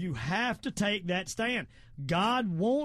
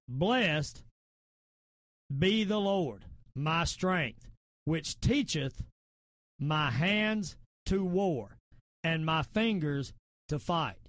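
slow, measured Bible quoting with weighty pauses; solemn, deliberate psalm recital; scripture recitation; 3 semitones lower, slower than usual. Acted. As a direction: deliver the verse phrase by phrase, firmly.

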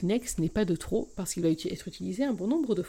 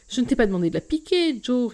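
laughing; 4 semitones higher, 7 dB louder than usual. Acted. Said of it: "rigole ma mère".

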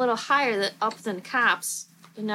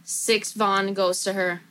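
mocking; 3 semitones lower, slower than usual. Real, not acted. Friend mocks the name.

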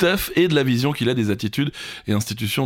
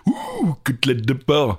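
Joker impression; slower than usual. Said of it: "C'est le Joker".

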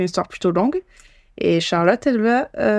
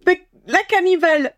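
surprised recognition; 10 semitones higher than usual. Real, not acted. Recognizes the killer's name.

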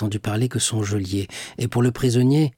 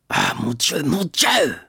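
anguished cry; 6 semitones higher, slower than usual. A narrator's reading. Dantès in his cell, crying out to God. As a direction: cry out to heaven in despair. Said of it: "s'écria-t-il".

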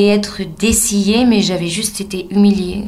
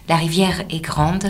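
whispering; 2 semitones lower, 3 dB quieter than usual. Acted. Intimate narration by the river.

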